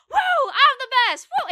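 loud, high, drawn-out mock celebration; gloating whoop. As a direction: whoop it up like a cocky winner. Imitates arrogant winner celebrating.

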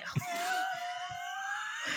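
drawn-out, very soft sigh; long quiet sigh. Retold or imitated. Owner as the needle goes everywhere, long quiet sigh. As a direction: let out a long retold sigh. Retold reaction to flying needle.

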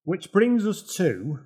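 slow, grand mock introduction; announcer voice. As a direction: announce it like a big championship. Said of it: "mock announcer intro".

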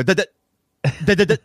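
teasing babble. Retold or imitated. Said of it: "I go".

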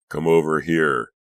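loud, brisk call to a partner; summoning someone from across the room; calling over. A narrator's reading. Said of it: "Detective Bender called to his partner".

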